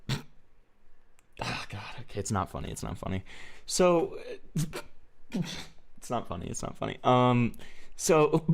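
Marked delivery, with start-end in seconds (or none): 0.1-7.0 stifled laughter, softer, breaking up; trying not to laugh. Real, not acted. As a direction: fight back laughter while coughing. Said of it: "it's already fucking me up".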